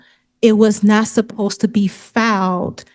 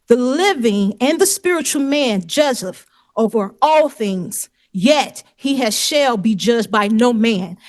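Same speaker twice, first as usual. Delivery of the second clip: slow, deliberate recital of a verse; scripture reading. Real, not acted. Litigant quoting scripture to the judge, deliberate recital. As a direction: recite it phrase by phrase, slowing toward the end.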